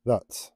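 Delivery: "that" said alone with a crisp, released T at the end; deliberate final T. Shown as a demonstration. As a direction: sound out the last T of "that" firmly. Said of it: "I can't pronounce my T's at the moment properly".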